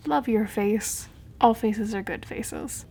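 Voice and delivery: slow, deliberate self-love affirmation; sincere. Real, not acted. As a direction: say it slowly like a mantra. Affirmation after self-deprecating joke.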